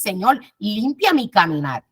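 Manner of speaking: prayerful plea. Shown as a demonstration. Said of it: "tienes que decir en tus oraciones".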